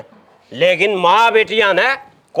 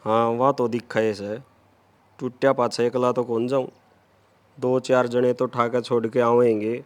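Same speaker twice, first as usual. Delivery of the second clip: put-on town drunk; 11 semitones lower, 8 dB quieter than usual. Drunk son-in-law mumbling low.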